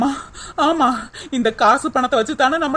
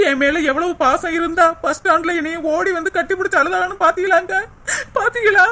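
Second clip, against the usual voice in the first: moved to tears as you tell it; tearful; 2 semitones higher than usual. Acted. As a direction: voice rising into crying. Tearfully recounts friend's loving embrace.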